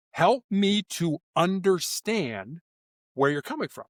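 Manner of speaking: slow, measured, understanding request; patient negotiator's appeal; empathetic. Shown as a demonstration. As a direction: ask slowly and gently, wanting to understand. Demonstrates tactical empathy phrase.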